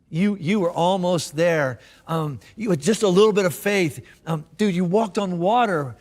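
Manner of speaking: gentle encouragement. Retold or imitated. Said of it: "like you when you were trying to teach your kid".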